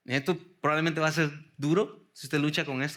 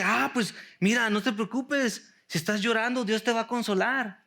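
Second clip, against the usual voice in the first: a touch higher, lightly reassuring tone; easy comforting reading; 3 semitones higher than usual. Retold or imitated. Preacher voicing a glib reading of the verse, lightly reassuring. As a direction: read the promise like a quick pat on the back. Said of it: "lo leemos y dice".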